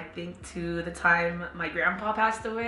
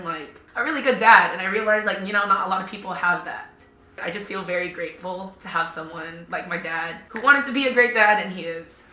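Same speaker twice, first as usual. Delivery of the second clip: snotty crying; 6 dB louder than usual. Real, not acted. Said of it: "sorry, I'm, like, ugly crying right now".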